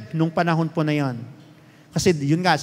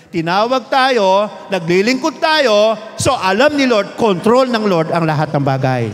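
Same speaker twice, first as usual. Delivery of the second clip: forceful preaching; 2 semitones higher, 5 dB louder than usual. Acted. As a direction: drive it home to the congregation.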